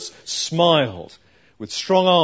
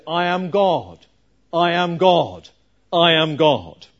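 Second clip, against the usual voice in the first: higher and louder, repeated proclamation; mock shout; 3 semitones higher, 5 dB louder than usual. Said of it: "she shouted".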